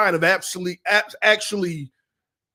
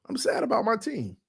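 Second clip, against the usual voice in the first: sad; 6 dB quieter than usual. Real, not acted. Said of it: "I felt emotional".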